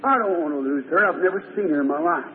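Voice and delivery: low-pitched pleading prayer; poor blind beggar's earnest prayer; praying father. Acted. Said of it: "he went out and he prayed".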